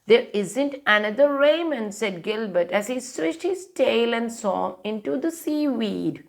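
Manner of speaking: lively storybook read-aloud; reading to children. A narrator's reading. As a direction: read it like a bedtime picture book. Reads picture book aloud.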